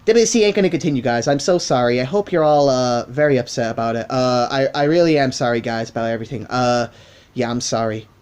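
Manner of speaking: lightly hammed-up American voice; put-on American accent. Younger self apologising to fans, in a put-on American accent. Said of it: "let me do my American voice".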